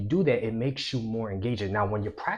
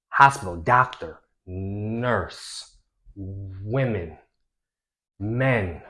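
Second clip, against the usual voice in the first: word association demo; 6 dB louder, much slower than usual. Shown as a demonstration. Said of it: "So I, I could say".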